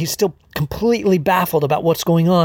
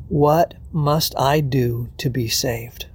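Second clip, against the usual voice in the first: stunned plea; 3 semitones lower, 3 dB quieter, slower than usual. Acted. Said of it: "monosyllabic stammering".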